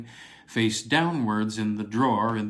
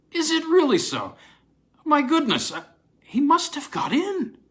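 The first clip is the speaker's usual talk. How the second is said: much higher, louder, breathless exclamation; great excitement; 5 dB louder than usual. A narrator's reading. Williams learns the window is open, in great excitement. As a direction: burst out, alarmed and thrilled. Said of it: "with great excitement".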